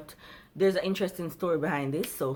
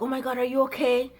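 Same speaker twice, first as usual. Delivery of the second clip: worried bystanders; 7 semitones higher, faster than usual. Retold or imitated. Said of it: "And they were like".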